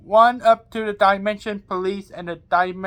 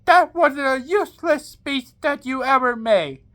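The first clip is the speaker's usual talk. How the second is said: mock shout; 5 semitones higher than usual. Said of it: "Snake Spear shout".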